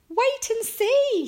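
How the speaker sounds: high, loud singsong tease; laughing glee. A narrator's reading. Mum keeping a secret from Franklin, gleeful. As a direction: draw it out gleefully, slowly. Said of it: "she laughed".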